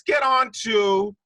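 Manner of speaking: hyped announcer. Acted. Host launching trivia segment.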